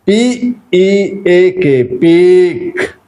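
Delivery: slow letter spelling, then peak said clearly; model pronunciation. Shown as a demonstration. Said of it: "listen to me very attentively".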